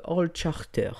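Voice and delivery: English name in a French accent. Real, not acted. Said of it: "avec mon magnifique accent anglais".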